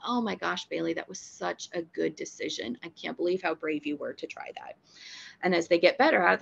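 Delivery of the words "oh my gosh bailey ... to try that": soft, quiet praise for a brave dog; gentle praise. Shown as a demonstration. Trainer praising Bailey, soft and gentle. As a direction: coo encouragement to a scared dog. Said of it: "And I'm saying".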